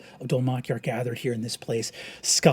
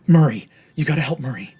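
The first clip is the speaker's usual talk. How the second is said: loud, fast, panicked begging; desperate plea; 3 semitones higher, 10 dB louder than usual. Acted. Condemned brother pleading with the bard, frantic. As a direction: beg for help before it's too late.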